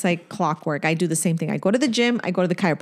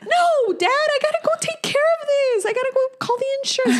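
high, fast, laughing through the quote; laughing retelling; 14 semitones higher than usual. Retold or imitated. Laughing while retelling what she told her dad, high and fast. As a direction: quote herself mid-laugh.

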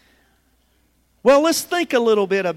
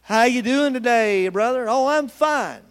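smiley-face cheer; 3 semitones higher, 5 dB louder than usual. Acted. Churchgoers greeting each other behind a smiley face, falsely cheerful. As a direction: put on a smile and sound just fine. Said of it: "put on a smiley face".

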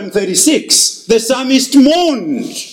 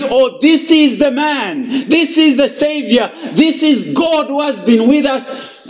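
a touch higher, wonder in the voice; awed realization; 5 semitones higher than usual. Acted. Disciples recognising Jesus on the shore, mild awe. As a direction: realize who he is, lightly awed. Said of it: "They realize".

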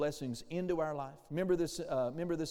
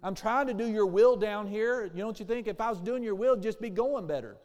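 mock whining; 3 semitones higher, 4 dB louder than usual. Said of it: "whining, moaning".

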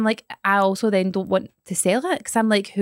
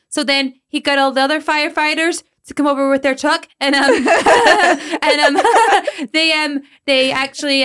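put-on kid giggling through joke; 5 semitones higher, 5 dB louder than usual. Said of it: "He goes".

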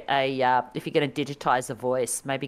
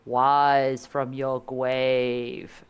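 lisping game voice; much slower than usual. Retold or imitated. Quoting the old game's lisping god voice. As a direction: quote the arcade god with a lisp. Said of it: "why the gods have lisps".

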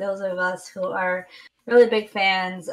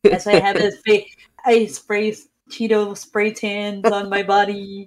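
Donald Trump; 3 dB louder than usual. Acted. Co-host teasing the other's failed impression, mock politician voice. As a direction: stretch out the boasts like a parody politician. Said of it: "It sounded like Donald Trump".

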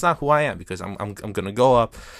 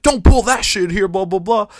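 mock scolding; 7 semitones higher, 5 dB louder than usual. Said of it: "And she was like".

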